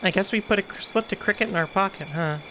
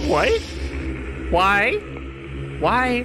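startled; 4 semitones higher, much slower than usual. Real, not acted. Hearing a strange radio chant.

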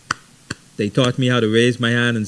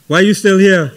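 higher and louder, breaking into laughter; laughing mock surprise; 7 semitones higher, 7 dB louder than usual. Courting couple after counting to three, laughing mock surprise. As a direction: catch him still on the line, laughing.

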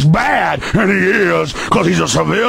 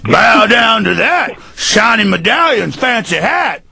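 vain cop. Retold or imitated. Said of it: "that's an imitation of 'em".

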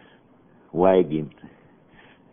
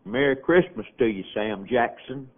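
calling out; 5 semitones higher than usual. Retold or imitated. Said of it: "heard Papa call out".

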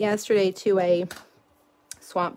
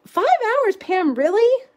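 much higher, louder burst of disbelief; surprised disbelief; 12 semitones higher, 5 dB louder than usual. Real, not acted. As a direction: react as if the answer floored you. Reacting to a viewer's surprising answer.

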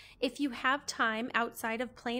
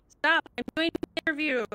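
loud, fast mock telling-off; mock scolding; 4 semitones higher, 7 dB louder than usual. Real, not acted. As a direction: scold the glitch playfully. Scolding the glitching connection.

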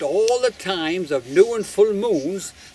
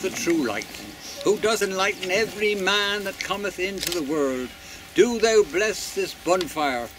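solemn prayer; 4 dB quieter than usual. Acted. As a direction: intone it like a priest, unhurried. Blessing of the bonfire.

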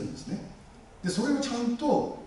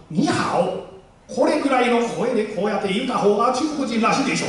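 higher and louder, Chinese-style register; 高く大きな中国語風の声; 6 semitones higher, 8 dB louder than usual. Shown as a demonstration. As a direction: raise the voice way up like Mandarin speech. (高く大きい中国語らしい声で)

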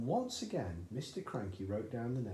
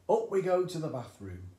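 eager dad; 5 semitones higher, 9 dB louder than usual. A narrator's reading. Cranky leads on.

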